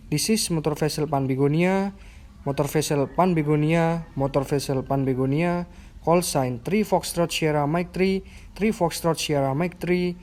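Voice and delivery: radio call, clear and measured; formal VHF radio call; over a radio. Shown as a demonstration. Radio call demo video.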